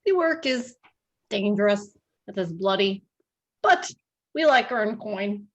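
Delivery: put-on halting Russian-accented hunter; measured phrases in a light put-on Russian accent; attempted Russian accent. Hunter describes his dangerous trade in an attempted Russian accent. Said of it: "in a thick Russian accent".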